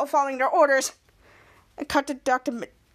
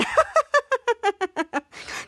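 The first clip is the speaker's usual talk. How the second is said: laughing; 7 semitones higher than usual. Retold or imitated. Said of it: "all of them laughing again".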